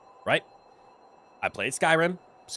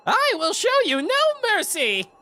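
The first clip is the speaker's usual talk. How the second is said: very high, loud menacing threat; a hammed-up high dragon taunt; Vhagar impersonation; 4 dB louder than usual. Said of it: "my take on Vhagar".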